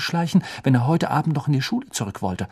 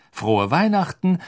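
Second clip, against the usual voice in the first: happy; 5 semitones higher than usual. A narrator's reading. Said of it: "sagte er glücklich".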